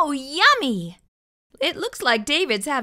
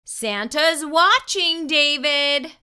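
slow, higher sing-song warning; 4 semitones higher, 4 dB louder, slower than usual. Acted. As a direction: warn him teasingly. Warning line from book.

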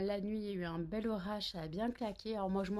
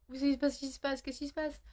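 voix pour le chat; 6 semitones higher than usual. Acted. Parle à son chat effrayé.

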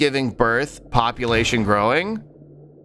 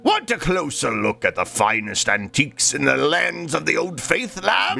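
pirate shopkeeper voice. Retold or imitated. Reads shopkeeper lines in voice.

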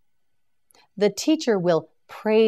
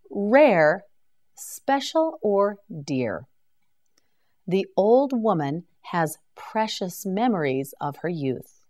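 normal talking voice

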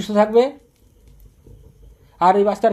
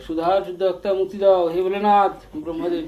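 chanted prayer in a raised, steady voice; loud invocation. Real, not acted. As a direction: call on the gods aloud. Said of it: "জোরে জোরে?". (উঁচু গলায় মন্ত্রের মতো প্রার্থনা)

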